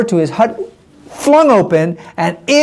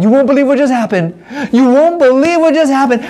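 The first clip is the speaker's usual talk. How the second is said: breathless gossip; 6 semitones higher than usual. Acted. Old lady tells villagers excitedly.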